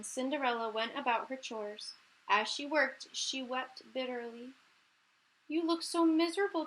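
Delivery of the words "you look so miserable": kind voice. Acted. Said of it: "said a kind voice".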